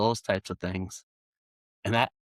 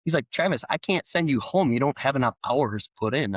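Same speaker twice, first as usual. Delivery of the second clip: retold frantic panic, pitched higher; frantic boss; 6 semitones higher than usual. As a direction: imitate a flustered boss losing it. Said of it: "he's kinda frantic".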